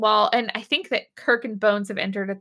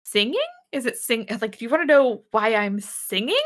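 halting, puzzled questioning; mildly baffled, acted; confused. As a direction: grope for what is being asked. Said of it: "she's very confused".

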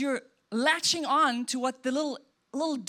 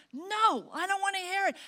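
a shouted no, then a curt brush-off; mock angry refusal; 8 semitones higher than usual. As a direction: slam the door on the explanation, hammed up. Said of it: "the person's like".

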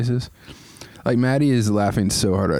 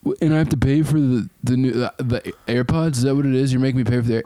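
complainer voice; 3 semitones higher than usual. Retold or imitated. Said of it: "your rant voice".

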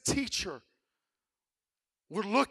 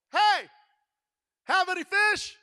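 higher, louder call across the water; calling from shore; 8 semitones higher, 4 dB louder than usual. Acted. Jesus calls to the fishermen, a higher, louder shout. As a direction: hail the boat from the shore. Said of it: "this voice that comes to them from the shore".

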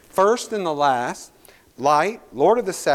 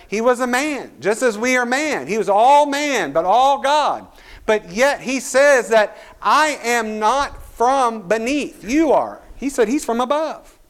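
higher, louder fervent preaching; preaching at full force; 5 semitones higher, 3 dB louder than usual. Acted. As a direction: drive it home from the pulpit.

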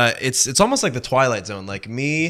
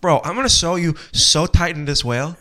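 put-on New York accent; 4 semitones higher than usual. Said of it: "I went a little New York".

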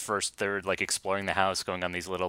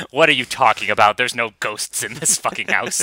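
mock-exasperated grown-up, louder; dismissive; 3 semitones higher, 7 dB louder than usual. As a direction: scoff loudly as an imitated skeptical adult. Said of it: "dismissive of it out of hand".

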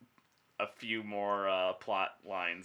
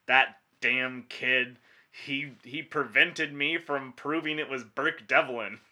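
sputtering foiled villain; 3 semitones higher, 5 dB louder than usual. Pretend. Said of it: "Curses foiled again".

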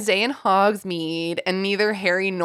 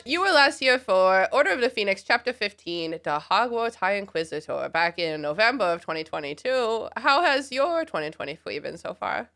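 put-on baby talk; 2 semitones higher than usual. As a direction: talk like a toddler. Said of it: "talk in baby talk".

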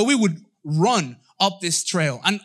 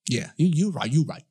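low murmured mm of sudden understanding; lightly voiced knowing nod; aha moment; 4 semitones lower than usual. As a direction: hum along like it just clicked. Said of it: "like an aha moment".

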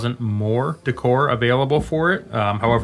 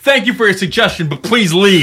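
overly polite; 7 semitones higher, 4 dB louder than usual. Retold or imitated. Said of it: "He's like".

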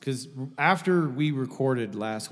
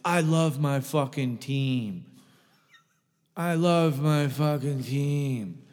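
slow, dragged-out mocking of a stubborn owner; stubborn mock quote; much slower than usual. Mocking league owners who refuse trades, slow and stubborn. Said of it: "Your response is".

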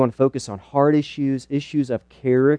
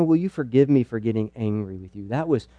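softer, humble asking for forgiveness; sincere apology; 4 semitones lower, 6 dB quieter than usual. Shown as a demonstration. Dad apologizing to his child for sinful anger, soft and sincere. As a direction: quietly own the anger and ask pardon. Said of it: "confess, say, you know".

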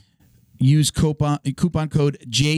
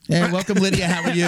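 awkward greeting; 4 semitones higher than usual. Real, not acted. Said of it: "What was that?".

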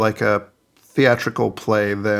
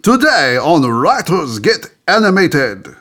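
higher-pitched hammed-up French accent; 5 semitones higher than usual. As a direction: announce it in a mock French accent. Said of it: "let me get my French accent ready".

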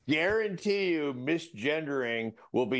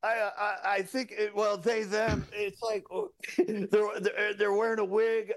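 mock-hesitant, higher-pitched radio call; flustered traffic cop; 5 semitones higher than usual. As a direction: fumble for the right words to dispatch. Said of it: "You're a cop on a traffic stop".

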